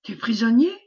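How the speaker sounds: mildly alarmed echoing question, rising sharply at the end; a touch of dismay in a questioning cry. Acted. Frightened townsfolk react to news of prisoners, mildly alarmed question. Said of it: "crièrent les bourgeois épouvantés".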